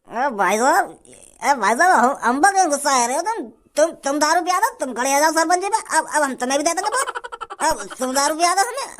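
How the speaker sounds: put-on lightly slurred drunken bargaining; tipsy villager. Drunk villager bargaining his vote for liquor, tipsy slur. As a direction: wheedle as if a few drinks in. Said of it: "अब तो शुद्ध बोलने लगा तू".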